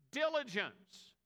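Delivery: drawn-out emphasis. Shown as a demonstration.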